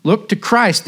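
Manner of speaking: hint of a broad Essex lay preacher pleading; a mild broad Essex accent in a preacher's fervour. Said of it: "said he in broad Essex".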